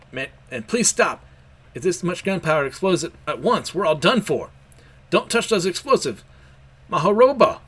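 rising urgent shout. Acted. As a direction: start urgent, end shouting the attack name. Yamato shouts attack name.

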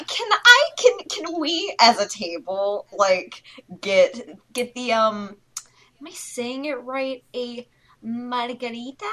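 exaggerated Spanish pronunciation; hesitant tourist overdoing Spanish; overdone Spanish accent. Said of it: "favorite impressions to do".

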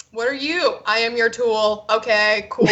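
flat robot bedroom talk. Retold or imitated. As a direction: say it like an obedient robot. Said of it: "in a robot voice".

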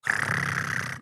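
breathy kettle hiss; whispered ah like steam; tea noise. Shown as a demonstration. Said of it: "that's a terrible tea noise".

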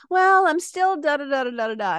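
imitating a client who did nothing; mock stuck client. Coach mimics a client who skipped the work, lightly mocking. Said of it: "they'll be like".

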